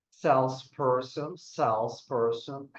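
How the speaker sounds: Salesperson said slowly twice with the stress on SALES; drawn-out Salesperson, first syllable stressed; slow stress demo. Shown as a demonstration. Teacher checks answers, slowly modelling Salesperson. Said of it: "Number one was dancer".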